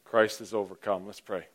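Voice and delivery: normal talking voice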